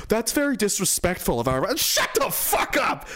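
mock prim objection turning to a furious snap; angry rant. Real, not acted. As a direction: tell them off with contempt. Ranting at offended critics.

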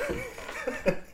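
high hooting bear laugh. Acted. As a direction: let out a silly bear laugh. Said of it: "Sid lets out a bear laugh".

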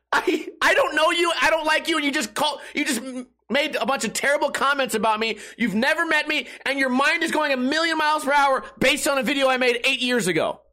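high, strained, near-crying rant at a stranger; high indignant outburst at an online stranger; exasperated rant. Retold or imitated. Ranting at scooter rider message.

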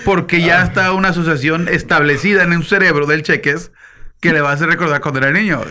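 usual speaking voice

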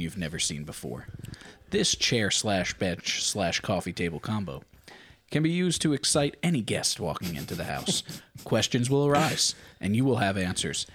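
smooth TV sales pitch; infomercial. Pretend. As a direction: pitch it like a late-night ad. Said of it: "here comes the sales pitch".

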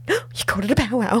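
mock giddy gasp of delight; lightly acted breathless excitement; excited. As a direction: imitate someone thrilled by a small thing. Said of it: "gets all excited about it".

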